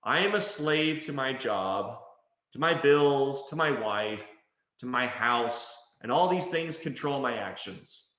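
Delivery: mildly burdened, mock-subservient recital; victim's complaint. Coach voicing forceful language as heard, mild victim. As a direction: list it like a weary slave, understated. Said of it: "this is how I'm hearing it".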